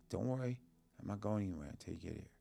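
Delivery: softly retold comforting words; soft reassurance. Ailing brother to sibling at the airport, soft reassurance.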